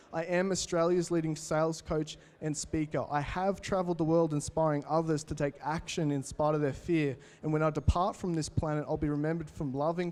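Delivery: steady declaration read aloud; calm affirmation recital; vision statement. Acted. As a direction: recite it like a personal creed.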